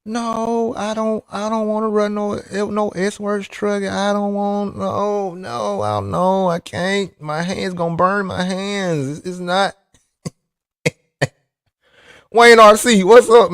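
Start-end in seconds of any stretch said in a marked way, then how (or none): 0.0-9.8 softer, whiny pleading in a put-on crybaby voice; a friend mocked as a crying baby; mock whining. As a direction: ham up a racer begging not to drive the truck. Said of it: "He up there crying".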